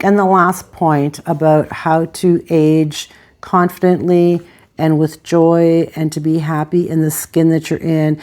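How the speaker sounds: usual speaking voice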